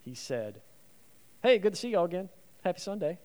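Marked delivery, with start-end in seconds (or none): 1.4-3.2 casual greeting. Shown as a demonstration. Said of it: "No, he says".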